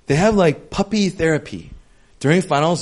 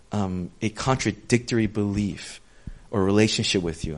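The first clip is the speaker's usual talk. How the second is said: quiet prayer; 6 semitones lower, 5 dB quieter than usual. Shown as a demonstration. Preacher modeling a prayer for the congregation, quiet and humble. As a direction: speak it low like a private thank-you. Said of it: "meaning say".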